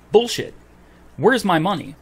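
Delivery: real indignant exclamation; angry outburst. Real, not acted. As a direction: blurt it out in real anger. Furious at the lost payment.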